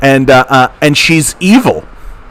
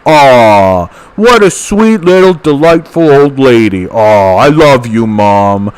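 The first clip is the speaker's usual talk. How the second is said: adoring fans. Retold or imitated. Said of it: "she's constantly got people going like".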